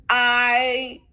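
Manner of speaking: slow, loud, drawn-out relief; eager relief. Retold or imitated. Answering Dee's plan, slow loud relieved burst. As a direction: let it out like you've waited forever. Relieved reply to ally's offer.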